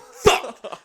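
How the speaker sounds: high, loud panicked fuck; panicked yell. Retold or imitated. Son yelling in panic while holding mom's hand, loud. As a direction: blurt it out in panic. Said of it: "I'm like".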